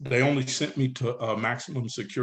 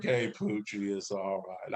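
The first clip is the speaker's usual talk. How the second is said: low, soft retold reassurance; calm reassurance; 5 semitones lower, 6 dB quieter, slower than usual. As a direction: imitate someone quietly smoothing things over. Acting out friend calming Poochie.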